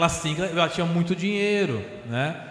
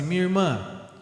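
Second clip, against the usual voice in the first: a firm, lower challenge to a stubborn spirit; 3 semitones lower than usual. Retold or imitated. Medium firmly questioning the spirit throwing a tantrum, firm. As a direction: hold your ground, steady and serious. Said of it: "Fui firme com ela. Falei desse jeito".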